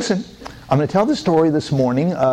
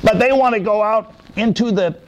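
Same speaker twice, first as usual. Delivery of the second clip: higher pleading voice; tormented man; 6 semitones higher than usual. Acted. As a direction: beg for the spirits. Possessed man explains.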